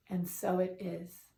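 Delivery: calm, measured affirmations with long pauses; guided meditation. Real, not acted. Leads a breathing meditation.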